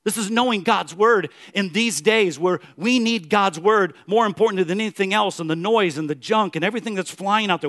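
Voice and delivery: ordinary delivery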